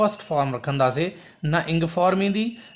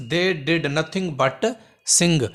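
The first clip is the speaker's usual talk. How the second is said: very slow dictation; teacher slowly reading the correct sentence; correct version, slowed; much slower than usual. Shown as a demonstration. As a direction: read the right sentence out word by word. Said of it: "हिते थींदो but sing".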